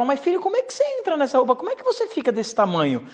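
high, rapid motherly questioning; puzzled mother. Retold or imitated. Mother asking her son about the puppet costume, high puzzled imitation. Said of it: "minha mãe sempre perguntava".

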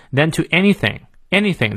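"anything" emphasized on its first syllable; stress on ANYTHING. Shown as a demonstration. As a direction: make "anything" the emphatic word. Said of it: "表示强调".

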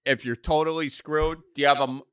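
lightly voiced dad pressing about savings; bored dad. Dad quizzing his kid about the bank account, lightly mock-paternal. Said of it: "Dad, bored in the car".

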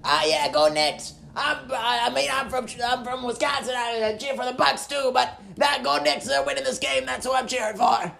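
rough sandpaper smoker's voice; smoker's rasp. Acted. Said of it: "oranges down sandpaper on a bed of nails".

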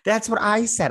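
sudden whispered aside. Real, not acted. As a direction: breathe it out, no voice. Quick agreeing aside.

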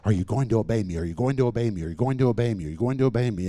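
imitating a dogged, insistent repetition; the same question hammered over and over without a break; relentless nagging. Holy Spirit hounding the reluctant preacher, relentlessly insistent. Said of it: "just stays right on your trail".

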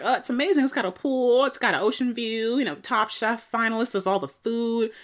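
high, bright, gushing pitch; sugarcoating sales pitch. Retold or imitated. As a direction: sell it like a brochure. Alice sugarcoating rehab.

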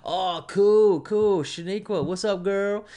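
high, loud put-on greeting; fake streamer voice. A streamer greeting Shaniqua, loud put-on hype voice. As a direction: gush over each viewer like a showman. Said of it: "talking like they don't normally talk".

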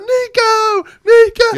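high, loud calls of the name; imitated fan yelling. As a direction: yell for your favorite wrestler, drawing it out. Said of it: "We were yelling".

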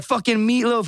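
high jeering call; mocking nickname. Platoon teasing him with his nickname, high jeer. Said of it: "And they're like".

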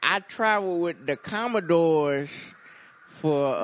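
loud, slow boastful uncle; drawn-out uncle bragging; booming tipsy uncle. Pretend. Uncle brags about touring with a band.

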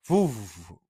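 low vocal whoosh of a car; imitated car whoosh. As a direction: make the sound of driving right past. Imitating car speeding past.

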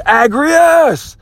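high, loud battle cry of a name; king's scream. Retold or imitated. Persian king summons his champion to fight, screaming. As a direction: bellow the champion's name across the field. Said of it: "the king on the Persian side screams".

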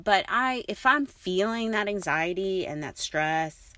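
ordinary talk

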